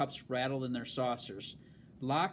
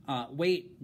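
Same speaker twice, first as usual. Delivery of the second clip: announced loudly; 4 dB louder than usual. Acted. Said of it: "Jenny announced loudly".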